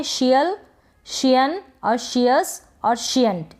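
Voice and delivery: slow, separated endings for learners to repeat; practice drill. Shown as a demonstration. Teacher showing learners how to practise endings, slow drill. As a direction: drill each ending slowly. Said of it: "इनकी practice ऐसे भी कर सकते हैं".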